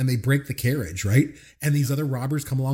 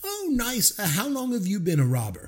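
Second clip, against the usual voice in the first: John Cleese impression; 5 semitones higher, 3 dB quieter than usual. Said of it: "and it's John Cleese".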